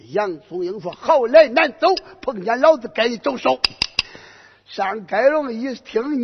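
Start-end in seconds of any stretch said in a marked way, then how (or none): 0.9-3.6 cocky taunt. Acted. Boy hero taunting general.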